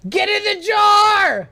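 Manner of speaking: shout. Real, not acted. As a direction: bellow it out slowly. Repeats it as a shout.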